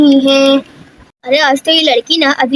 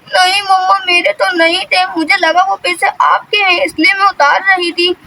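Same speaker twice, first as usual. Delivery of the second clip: tearful pleading; 4 semitones higher than usual. Acted. Scolded child pleads with mother.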